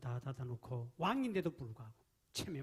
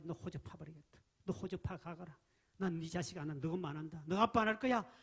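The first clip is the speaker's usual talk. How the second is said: scolding parent; 2 semitones higher, 5 dB louder than usual. Acted. Parent disowning a child.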